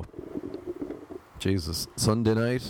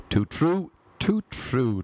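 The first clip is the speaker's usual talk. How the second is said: lightly voiced other self, higher, saying Too true; second self agreeing; 4 semitones higher, slower than usual. Talks to himself on the podcast, mock other voice agreeing. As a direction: answer yourself as a wise sidekick. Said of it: "Talking to myself in the podcast".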